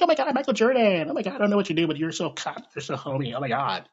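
put-on high squealing fan girl, breathless; gushing fangirl. Mocking girls gushing over Michael Jordan, high squeal. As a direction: gush like a starstruck fan. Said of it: "every damn girl, like".

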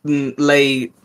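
speaking through a burp. Real, not acted. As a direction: burp mid-word, then carry on. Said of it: "Sorry, I keep burping".

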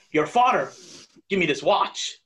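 broken-up Walken rhythm, lightly voiced; Christopher Walken. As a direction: chop every line into its own sentence like Walken. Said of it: "I can't do Christopher Walken's voice".

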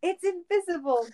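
high-pitched excited exclamation; clamoring. A narrator's reading. Cage banging on the glass, hammed-up clamoring. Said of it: "Cage clamored".

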